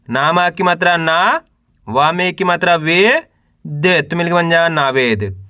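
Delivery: teacher's spelling drill, held rising syllables; syllable-by-syllable sounding out. Shown as a demonstration. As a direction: sound out each letter for beginners to repeat. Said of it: "एक अक्षर का उच्चारण करके इनको पढ़ रहा हूँ".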